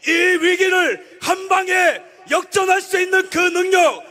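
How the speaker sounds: fiery sermon at a rally; preaching at full force. Acted. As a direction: roar it like a preacher.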